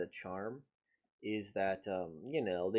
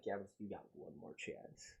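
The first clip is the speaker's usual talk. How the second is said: mock crying; 3 semitones lower, 7 dB quieter than usual. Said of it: "I would start crying like".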